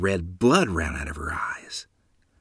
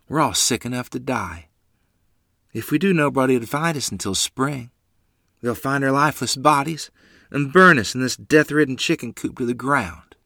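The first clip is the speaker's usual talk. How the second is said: trembling desperation; 5 semitones higher, 5 dB louder than usual. A narrator's reading. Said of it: "her voice trembling in concern and desperation".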